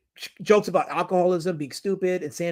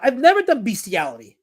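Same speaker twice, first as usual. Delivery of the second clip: higher-pitched indignant protest; indignant denial; 3 semitones higher, 4 dB louder than usual. Real, not acted. Indignant denial of chat's accusation.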